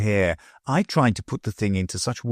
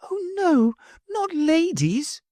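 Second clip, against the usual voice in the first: put-on much higher, slow, pleading child; earnest plea; slower than usual. A narrator's reading. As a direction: beg him to say it isn't so. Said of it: "she earnestly pleaded".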